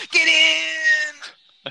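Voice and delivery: very high, loud, slow shout. Acted. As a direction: drag out the big yell. Get in catchphrase shout.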